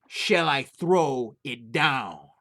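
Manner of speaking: slow, drawn-out ghostly call; a spirit moaning down the chimney; eerie chimney voice. Acted.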